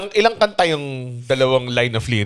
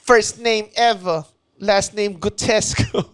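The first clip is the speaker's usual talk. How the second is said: joke delivery; 4 semitones higher, much slower than usual. Acted. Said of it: "yun yung joke ko na".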